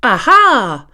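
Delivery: loud triumphant aha; cat catching the thief; triumphant cry. Acted. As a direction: shout it as you catch him. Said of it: "cried Mimi".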